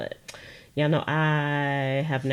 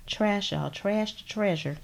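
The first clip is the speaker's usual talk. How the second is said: playful, slightly raised Texas twang; 4 semitones higher, 4 dB quieter than usual. Pretend. Crafter showing viewers a trash to treasure page, mock Texas twang. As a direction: put on a light Texas twang. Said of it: "that's my Texas, uh, twang".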